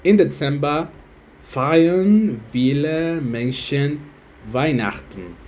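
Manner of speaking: words stretched out very slowly; very slow unsure reading. Shown as a demonstration. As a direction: drag each word out unsure. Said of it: "Creo que es así". (lectura muy lenta e insegura)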